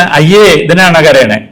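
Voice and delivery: slow belittling ayye again drawn out; slow mock dismissal; dismissive scoff. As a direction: scoff at the child's crying. Repeats dismissive adult line.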